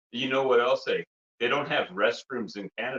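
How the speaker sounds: put-on Canadian hoser accent; lightly hammed-up Canadian accent; funny Canadian accent. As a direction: play a comic Canadian hoser. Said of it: "we're gonna be breaking character".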